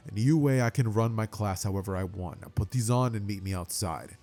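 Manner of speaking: a hint of a low, stern teacher. Aizawa answers the class.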